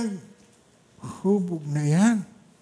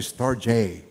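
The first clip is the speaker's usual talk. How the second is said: American pronunciation; 3 semitones lower than usual. Retold or imitated. Pastor shows the congregation the American "storge". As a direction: mimic how Americans say "storge". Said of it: "Ang mga Amerikano, kung mag-pronounce".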